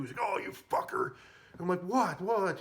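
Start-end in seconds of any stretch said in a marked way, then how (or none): 0.2-1.1 high-pitched retold cursing; pissed off. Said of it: "He got pissed too". 1.8-2.6 high, louder, repeated question; feigned innocence. Retold or imitated. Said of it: "I was pretending like it was an accident".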